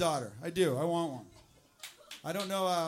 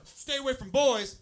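slow, loud, higher parental order; stern warning; 7 semitones higher, 9 dB louder, slower than usual. Retold or imitated. Parent warning teenage daughter, slow loud stern. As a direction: lay down the law slowly. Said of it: "when you say to your teenage daughter".

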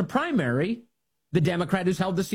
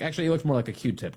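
usual speaking voice

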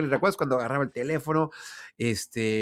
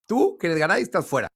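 imitating Florentino; 6 semitones higher than usual. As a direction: ham up the president kicking him out. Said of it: "tú le dices al oído algo".

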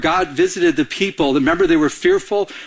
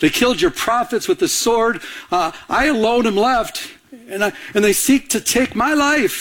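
higher, whiny plea of a self-pitying prophet; self-pitying excuse; 5 semitones higher than usual. Acted. Elijah pleading his excuse to God, whiny and high. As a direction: complain like you're the only one left. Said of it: "he's making an excuse".

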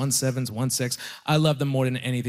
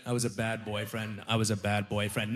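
quiet admission; 7 semitones lower, 8 dB quieter than usual. Real, not acted. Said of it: "I'll admit it".

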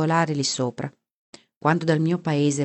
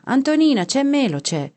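high, loud call to someone inside; 9 semitones higher, 4 dB louder than usual. A narrator's reading. Husband shouts to his wife that Melo is here, calling out. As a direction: call it out to the next room. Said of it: "gridò verso la moglie".

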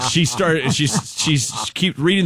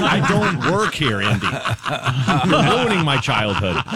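laughing mock protest; 3 semitones higher than usual. Answer to Harrison Ford.

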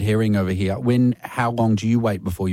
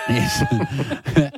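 excited squeal. Real, not acted. Excited reply to caller.

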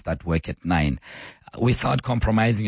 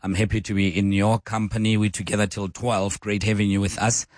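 hoarse, croaky radio host voice. Real, not acted. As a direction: talk through a croaky throat. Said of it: "I did apologize about my croaky voice".

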